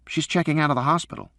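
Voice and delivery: put-on high boy's voice, earnest; a kid telling dad the news; young son. A narrator's reading. Son telling his father about his mother, earnest.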